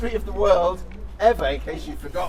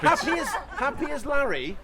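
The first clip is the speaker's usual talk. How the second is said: excited title pitch; 9 semitones higher than usual. Real, not acted.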